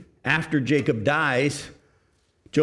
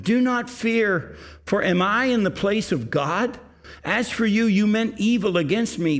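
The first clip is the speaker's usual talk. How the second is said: kindly; 5 semitones higher than usual. Acted. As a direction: comfort frightened brothers gently. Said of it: "spoke kindly to them".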